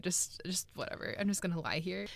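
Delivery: very soft, mock-exhausted giving up; resigned. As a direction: mumble it like you've given up. Acting out giving up while dying.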